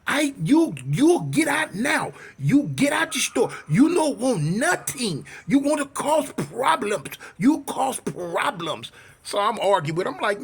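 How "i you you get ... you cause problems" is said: put-on slow, emphatic accented ordering-out; mock an irate accented shop owner, word by word; imitated angry outburst in a put-on accent; blown-up shopkeeper. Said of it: "they blowed up".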